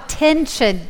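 "Tension" said on its own, carefully separated; careful enunciation. Shown as a demonstration. Clearing up a misheard word for the audience, careful enunciation. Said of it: "Yeah, sorry".

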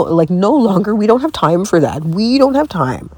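high-pitched, emphatic protest; exasperated. Real, not acted. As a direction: put your foot down, voice climbing. Venting about red flags, exasperated.

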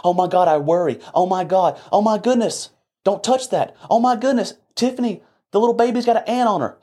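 hammed-up high worried parent, fast at the end; mocking a worrier. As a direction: parody an anxious parent fretting over nothing. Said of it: "this paradigm that you've created".

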